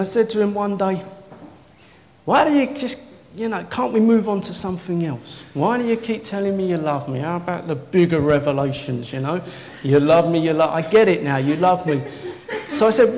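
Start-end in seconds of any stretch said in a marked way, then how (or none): 2.2-9.4 mildly exasperated. Retold or imitated. Preacher complains to God about the repetition, exasperated. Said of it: "it started driving me nuts". 9.8-12.0 louder, mock-impatient repetition; exasperated. Preacher tells God he gets it, exasperated. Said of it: "it started driving me nuts".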